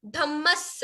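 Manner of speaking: धम्मस with doubled m and doubled s; double consonants. Shown as a demonstration. Teacher explaining double letters to class, careful pronunciation. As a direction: hold both the म and the final स in धम्मस. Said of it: "इसमें double म है, double स है".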